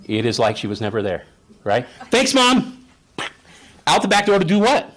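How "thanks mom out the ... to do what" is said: put-on high, loud, carefree child's call; chirpy recovered kid. Kid to mom, running back out, excitedly carefree. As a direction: toss out thanks brightly while dashing off.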